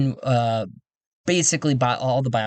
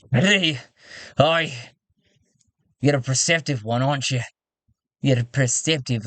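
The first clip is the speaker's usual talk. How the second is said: lightly put-on English accent; tentative English character accent; English-style accent; 2 semitones higher than usual. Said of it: "is he English or something?".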